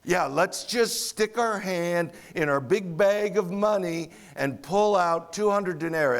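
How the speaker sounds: lightly voiced crabby sarcasm; a mild mock eye-roll at the idea; sarcastic. Grumpy disciples mock Jesus's request, light sarcasm. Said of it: "it's very sarcastic".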